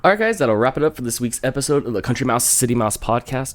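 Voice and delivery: garbled as if marbles in mouth. Real, not acted. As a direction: marbles in mouth, tongue-tied outro. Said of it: "Talking with marbles in your mouth".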